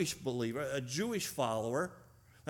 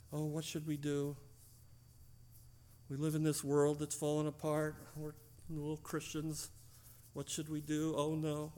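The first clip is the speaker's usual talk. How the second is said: hand-wringing worrier; 4 dB quieter than usual. Retold or imitated. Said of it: "Don't just wring your hands".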